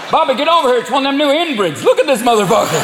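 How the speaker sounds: high Southern holler; Southern yokel accent. Acted. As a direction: call a pal over in a Southern twang. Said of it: "especially in the South".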